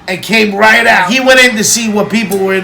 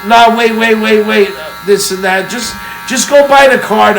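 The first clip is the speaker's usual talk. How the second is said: hurried-sounding mock plea, pitched up; insistent retold begging; imitated urgent pleading; 3 semitones higher than usual. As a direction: act out someone stopping him from leaving. Acted pleading as he threatens leaving.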